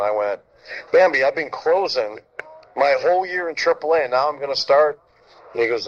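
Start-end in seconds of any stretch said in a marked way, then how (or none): 0.9-5.0 retold bewildered protest, pitched up; incredulous protest. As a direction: protest to the manager in raised-pitch disbelief. Protests a surprise start to manager.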